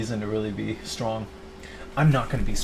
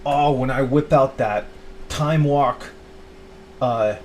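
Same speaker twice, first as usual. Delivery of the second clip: slow, savoring build that bursts loud on dude; mock excitement; 2 semitones higher, 6 dB louder, slower than usual. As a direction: hype up the card combo like a kid, then blow up loud.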